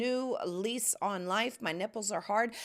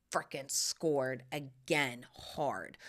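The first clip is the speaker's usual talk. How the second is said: whisper; 7 semitones lower, 4 dB quieter, much slower than usual. Acted. Gleeful secret about the antique haul.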